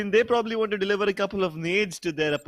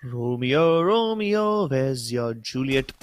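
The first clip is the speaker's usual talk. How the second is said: theatrical Shakespeare quote; 4 semitones lower, much slower than usual. Pretend. Mock Shakespeare line during cast.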